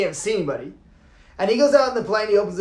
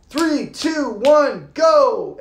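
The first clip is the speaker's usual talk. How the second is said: countdown growing louder on go; coach's countdown; 4 semitones higher, 3 dB louder, much slower than usual. Retold or imitated. Instructor counting down at the open door, loud on go. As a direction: call it out like the coach. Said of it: "It goes, it goes, it goes".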